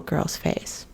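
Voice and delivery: choked whisper. Real, not acted. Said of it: "it's upsetting me".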